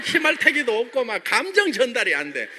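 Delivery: normal talking voice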